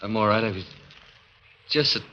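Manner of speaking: soft, halting, stunned voice; shaken and faint. Acted. Assistant answering the doctor, still shaken and quiet. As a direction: barely hold yourself together.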